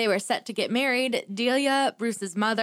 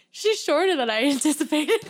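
imitating a friend; 6 semitones higher, 3 dB louder than usual. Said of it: "He said".

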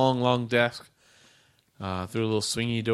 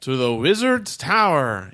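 robot greeter; 4 dB louder, slower than usual. Acted.

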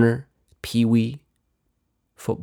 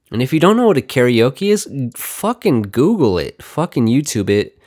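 mild yell; 3 semitones higher, 3 dB louder than usual. Real, not acted. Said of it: "didn't mean to yell at you".

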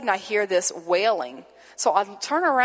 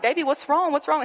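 higher, anxious coaxing; worried, caring questions, pitched up; urgent concern; 6 semitones higher than usual. Retold or imitated. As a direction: retell reaching out to someone in distress. Comforting a sobbing stranger.

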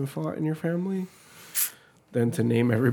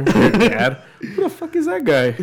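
put-on kid shouting; 7 semitones higher, 5 dB louder, slower than usual. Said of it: "You walk in through the door".

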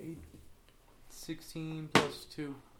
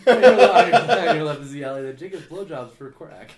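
tour guide voice; 3 semitones higher, 18 dB louder than usual. Acted. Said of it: "tour guide voice".

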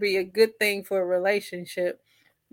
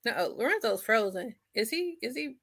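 fuzz distortion; 2 semitones higher than usual. Real, not acted. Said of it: "you sound a little distorted".

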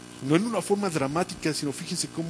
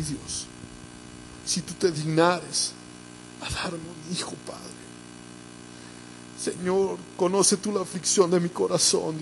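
imagined sobbing plea; 3 semitones higher than usual. Acted. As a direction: plead with God as a weeping Ana. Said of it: "me imagino a esa mujer sollozando". (súplica angustiada, imitando a Ana llorando)

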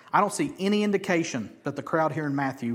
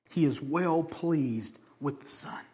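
solemn, slow; slower than usual. Real, not acted. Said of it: "slow solemn emphasis".

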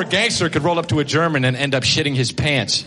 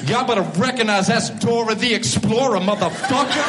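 lightly voiced swaggering gangster greeting; 3 semitones higher than usual. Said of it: "be like".

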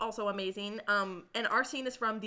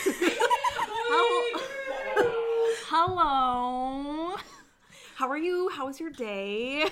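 high silly hello; 7 semitones higher, 4 dB louder, much slower than usual. Acted.

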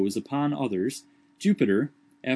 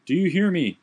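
calling up; 6 semitones higher, 4 dB louder than usual. A narrator's reading. Calling up tree.

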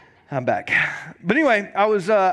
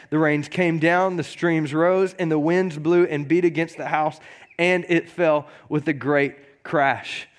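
scripture reading. Acted. Pastor reading Matthew to the congregation, measured. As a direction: read the verses with weight.

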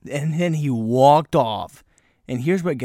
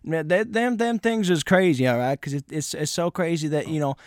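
lightly voiced stranger; 3 semitones higher than usual. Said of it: "I just heard him say".

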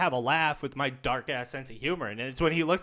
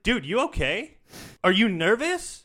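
loud; 9 semitones higher, 6 dB louder, slower than usual. Retold or imitated. Teasing the stuttering cashier.

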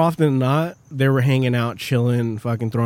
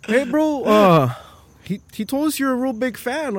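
imitating broken English; 11 semitones higher than usual. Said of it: "talking their broken English".

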